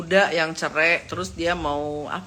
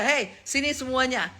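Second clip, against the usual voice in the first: leader's tone; 3 semitones higher, 4 dB quieter than usual. Retold or imitated. Host shows how a real leader calls people, measured leader's tone. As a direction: call them over calmly, with some authority. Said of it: "nada bicaranya aja udah beda".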